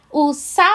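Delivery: "sa" suspenso, esperando a criança completar; sílaba deixada em suspenso. Shown as a demonstration. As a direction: diga "sa" e pare, como deixa para completar. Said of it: "espera a criança completar". ("sa" em suspenso, sem terminar a palavra)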